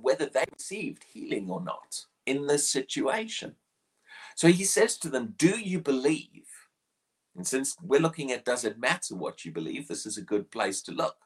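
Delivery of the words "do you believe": hushed whisper of the question. Acted. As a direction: lean in and whisper it. Jesus' question repeated hushed.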